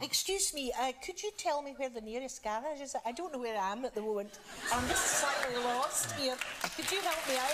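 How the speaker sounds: a soft, friendly Scottish accent asking directions. Shown as a demonstration. Actress asking a stranger for the nearest garage, in a soft Scottish accent. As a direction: put on a light Scottish accent to sound classless and friendly. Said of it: "I always become Scottish".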